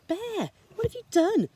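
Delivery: high, dismayed squeak of a question; alarmed little mouse. Acted. Mouse cries out at Bear for folding the map, high. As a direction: panic that the map is ruined.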